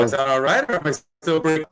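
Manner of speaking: bad connection. Real, not acted. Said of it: "you're breaking up".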